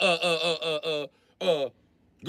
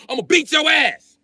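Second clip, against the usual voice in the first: slow threat; 4 semitones higher than usual. Real, not acted. Threat in a rant.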